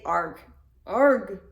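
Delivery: loud, overdone growl of frustration; exaggerated arg. Shown as a demonstration. Suggesting a mock-angry sound to coworkers, exaggerated. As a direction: ham it up so it's almost a joke. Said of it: "in a very pronounced and exaggerated way that it's almost like a joke".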